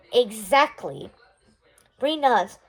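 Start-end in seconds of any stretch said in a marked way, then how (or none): 0.1-1.1 slow, drawn-out smug "Exactly"; smirking. Acted. Brother smugly agreeing to send the parents away. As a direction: savor it like a sly win. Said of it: "My brother smirks".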